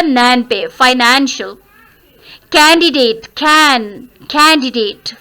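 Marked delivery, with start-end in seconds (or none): 0.7-1.6 "Financial" stressed on a long "nan". Shown as a demonstration. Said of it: "stress किस पे आया?". 2.5-5.1 "Candidate" stressed on "can"; first-syllable stress. Shown as a demonstration. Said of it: "First syllable is to be stressed".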